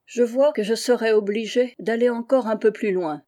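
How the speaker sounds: angry. Acted. Woman threatens the narrator, loud and angry. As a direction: promise hatred with force. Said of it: "avec une colère égale à la mienne".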